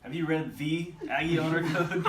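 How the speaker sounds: loud, high, "the" punched, laugh creeping in; stress on "the". Shown as a demonstration. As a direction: hit "the" absurdly hard. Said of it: "different inflection on the words".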